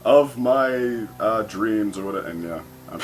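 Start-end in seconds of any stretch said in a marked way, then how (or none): 0.0-2.0 slow, drawn-out lovestruck recital of a poem line; dreamy poet recital. Retold or imitated. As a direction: savor each word like a swooning poet. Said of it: "and then finally".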